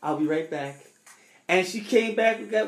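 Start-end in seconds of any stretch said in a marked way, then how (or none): 0.0-0.8 quiet calm. Retold or imitated. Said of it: "She was like".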